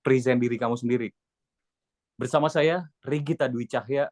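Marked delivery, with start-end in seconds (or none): 2.1-4.1 anchor reading the name; news anchor sign-off. Shown as a demonstration. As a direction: say it like a newscaster. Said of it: "Paham nggak?".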